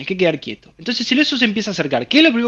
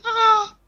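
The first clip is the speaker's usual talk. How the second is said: sharp high strangled gasp; high startled yelp; imitated fright gasp. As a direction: mimic a sudden scared cry that chokes off. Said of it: "generan un susto en la laringe".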